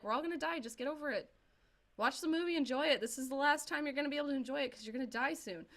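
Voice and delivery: high, amused mock-nihilist lecture with a laugh at the end; cheerful doom sermon, laughing through the last line; nihilist meme. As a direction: tell her friend to get over death, breezily. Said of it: "started to sound like a nihilist meme".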